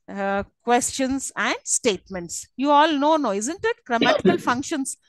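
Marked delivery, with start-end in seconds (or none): 2.6-3.8 teacher's sample tag question, rising at "isn't it". Shown as a demonstration. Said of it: "if it's a tag question".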